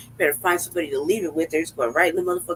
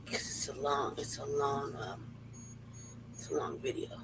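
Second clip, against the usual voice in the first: whisper; 5 semitones lower, 15 dB quieter than usual. Real, not acted. Whispering that video is long.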